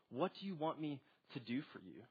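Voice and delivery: soft, understated question without reproach; gentle question. Acted. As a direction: ask it quietly, no rebuke in it. Jesus answers without rebuking them.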